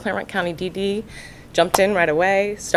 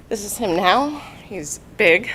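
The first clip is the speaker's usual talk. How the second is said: ordinary talk, nothing marked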